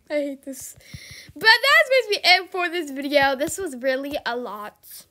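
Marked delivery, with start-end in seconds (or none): 0.1-0.8 soft unvoiced whisper; whispered aside. Real, not acted. Streamer whispering her disgust to viewers.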